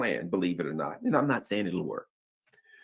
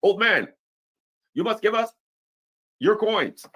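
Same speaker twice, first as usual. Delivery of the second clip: high, loud badly dubbed karate-movie villain; dubbed movie thug; 11 semitones higher, 4 dB louder than usual. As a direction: taunt like a dubbed kung fu bad guy, pitched up. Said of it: "their mouths aren't with the words".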